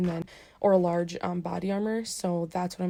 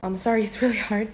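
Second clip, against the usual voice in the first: muffled by mask; 6 dB quieter than usual. Real, not acted. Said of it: "hard to talk with the mask on".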